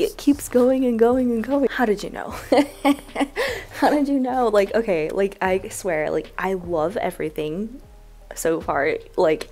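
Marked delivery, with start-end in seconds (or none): 3.8-4.5 laughing through the question. Real, not acted. Asking the giver again, laughing delightedly. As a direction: let the laugh carry the words.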